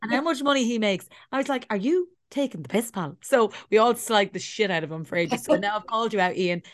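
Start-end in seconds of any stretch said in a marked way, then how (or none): 0.0-3.2 indignant scolding. Retold or imitated. Retold scolding of friend over money.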